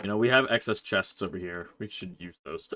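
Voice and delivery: talking with hiccups; hiccuping mid-sentence. Real, not acted. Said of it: "I got the hiccups".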